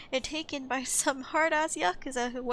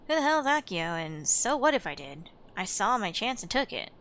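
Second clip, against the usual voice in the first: thug voice; 4 dB louder than usual. Acted. Voicing thug in game scene.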